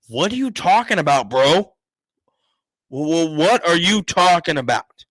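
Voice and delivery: retold incredulous outburst. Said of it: "I was just simply like".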